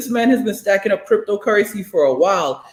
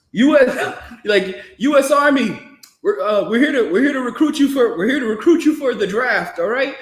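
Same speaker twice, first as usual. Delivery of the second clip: higher recruiter at the door; mock army recruiter; 4 semitones higher than usual. Recruiter knocking on doors for the draft, mock. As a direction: announce it like a recruiter. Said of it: "everybody's like".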